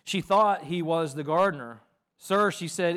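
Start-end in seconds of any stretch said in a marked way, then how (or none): 2.2-2.5 raised, urgent address; louder, higher plea; pleading. A narrator's reading. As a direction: call out to him in appeal. Reads Mary's plea to the gardener.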